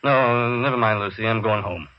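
weary, resigned; dejected. Acted. Boss telling his secretary he's going home, dejected. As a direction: give up for the day. Beaten boss gives up for day.

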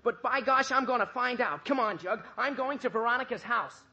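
rally yourself and charge off; fired-up boy taking action; sudden resolve. Acted. Archie resolves to find out.

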